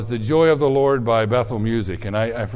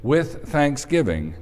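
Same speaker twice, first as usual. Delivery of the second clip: prayer. Real, not acted. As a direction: pray it gently to God. Leads a prayer.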